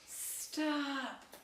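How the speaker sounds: high, drawn-out cry of protest; screamed command. Acted. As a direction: cry out to halt someone, acted. Replays the face's screamed plea.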